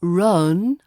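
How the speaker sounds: "run" with a long, off-target vowel instead of uh; wrong drawn-out vowel. Shown as a demonstration. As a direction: stretch the vowel of "run" away from cup. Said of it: "It's not run".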